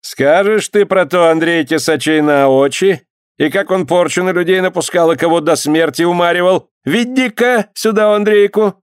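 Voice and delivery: lightly voiced stern clerk; stern dyak. A narrator's reading. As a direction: boss them about like a tsarist clerk. Dyak orders Andreyka brought.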